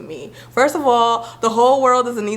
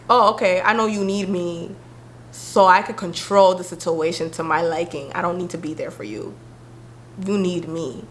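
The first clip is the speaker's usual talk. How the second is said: controlling friend. Retold or imitated. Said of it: "people act like".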